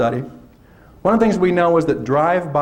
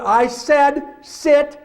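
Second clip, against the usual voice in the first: much higher, slow barked order; mock teacher shout; 10 semitones higher, much slower than usual. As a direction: snap at a restless class. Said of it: "Or was it".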